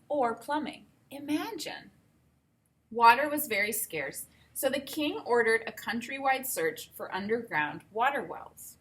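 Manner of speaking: put-on reading a picture book aloud to kids; unhurried storybook telling; read-aloud voice for children; story narration. Reads story introduction aloud.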